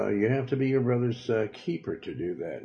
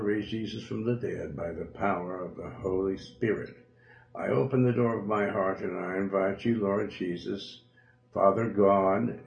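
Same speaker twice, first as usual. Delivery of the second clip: prayer. Acted. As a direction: lead the listener through the prayer. Preacher leads a sinner's prayer.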